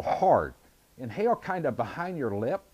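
talking around mouthpiece; e-cigarette in mouth. Real, not acted. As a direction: lips closed on tip. Seen 0: Thin e-cigarette held between lips while speaking throughout.

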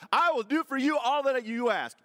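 high, loud, hammed-up vow; mock smitten promise. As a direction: gush the promise like an infatuated suitor. What Boaz never said.

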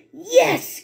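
high, delighted yes; excited cry. Acted. Witch delighted with her new broom, high yes. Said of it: "cried the witch".

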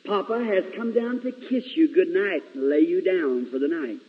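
lightly voiced loving father tucking children in; gentle papa saying good night; loving father's voice. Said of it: "I can hear the loving voice of a father say".

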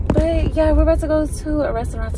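breathless, rushed and loud; panting between words; out of breath. Real, not acted. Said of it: "I'm also out of breath".

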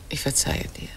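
soft breathy pardon; whispered forgiveness. Acted. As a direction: whisper it close and gentle. Wife forgives husband's affair. (geflüsterte Vergebung)

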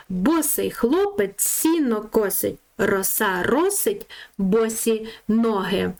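slow, careful recital of the twister; tongue twister recital. Shown as a demonstration. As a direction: read it slowly so children hear every s. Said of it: "послухайте таку скоромовочку". (повільно, чітко декламуючи скоромовку)

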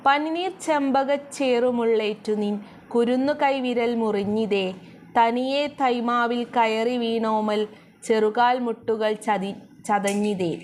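slow, measured reading of the verse; slow lilting poem recital; poem recitation. Shown as a demonstration. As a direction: chant the line slowly like a recited poem. Teacher recites next verse.

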